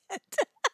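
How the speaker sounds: high squeal of a laugh. Real, not acted. Cracking up at the meme.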